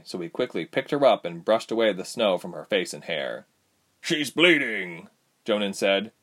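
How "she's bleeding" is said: raised, drawn-out voice of alarm; alarmed father. A narrator's reading. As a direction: let the worry lift your voice. Father finds daughter hurt.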